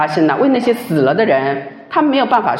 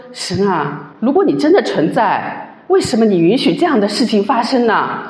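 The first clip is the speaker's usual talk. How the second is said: tearful complaint; 3 semitones higher than usual. Retold or imitated. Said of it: "就是哭诉啊".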